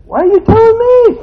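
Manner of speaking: high, loud question through a laugh; laughing bafflement. Retold or imitated. Preacher wondering why she told him, laughing. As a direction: laugh at the oddness of being told. Retold puzzled thought.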